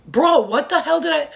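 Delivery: high, loud exasperated kid impression; imitating daughter. Daughter protesting to her mom, high mock outrage. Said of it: "My daughter's like".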